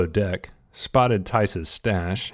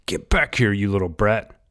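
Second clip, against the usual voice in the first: put-on angry man shouting after a runaway boy; yelling. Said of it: "commenced yelling at Rat".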